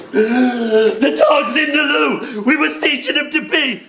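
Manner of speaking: high, drawn-out yell bursting into the room; panicked shout. Acted. People bursting into the room with news, panicked high shout. Screamed punchline of the burst-in haiku.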